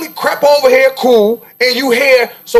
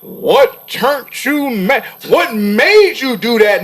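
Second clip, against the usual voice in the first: mock polite questioner; 4 semitones lower, much slower than usual. Mocks officials questioning him.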